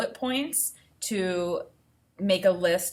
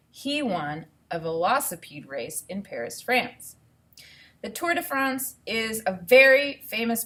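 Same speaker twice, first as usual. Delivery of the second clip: clear, even read-aloud voice; reading to children. Acted. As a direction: read the book to the class. Teacher reads book aloud.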